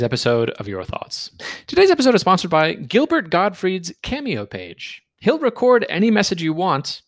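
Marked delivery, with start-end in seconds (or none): 1.7-7.0 higher-pitched podcast sponsor read. Real, not acted. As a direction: pitch it up like an upbeat ad. Reads the sponsor message.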